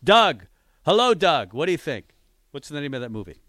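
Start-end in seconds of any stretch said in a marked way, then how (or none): 0.0-1.5 louder on-air hello to the caller; host hails the caller on the line; loud greeting. Real, not acted. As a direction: call out to him like he's across the room.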